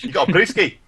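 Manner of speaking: Australian slipping into Scottish; botched Australian accent. Shown as a demonstration. Co-streamer fumbling the accent game, Australian turning Scottish. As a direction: try Australian and drift towards Scottish. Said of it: "No, that's Scottish again".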